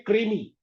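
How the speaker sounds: क्रीमी with kr together; क्रीमी, clear kr cluster; answering with क्रीमी; say kreemi. Shown as a demonstration. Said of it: "हम क्या बोल रहे हैं?".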